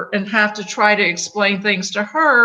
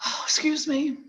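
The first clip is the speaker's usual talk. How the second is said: fighting back sobs, higher and choked; crying; 6 semitones higher, 6 dB quieter than usual. Real, not acted. Apologizing to Frank mid-story, breaking into real tears. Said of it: "I didn't anticipate crying like this".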